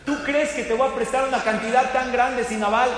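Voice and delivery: the proper version of the lender's reply; polite disbelief. Retold or imitated. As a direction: ask in earnest amazement at a loan with no guarantor. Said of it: "no le dijo así".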